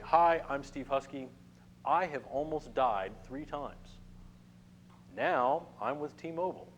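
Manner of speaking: slow, deliberate, bold self-introduction; attention-grabbing intro. Shown as a demonstration. Teacher demoing an intro to a bored networking group, slow and bold. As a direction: make the room look up at you. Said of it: "I will say".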